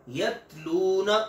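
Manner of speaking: यतलूना with a light, thin ta and no jolt, drawn out; Arabic ta, thin and soft. Shown as a demonstration. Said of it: "बारीक और बगैर झटके वाली".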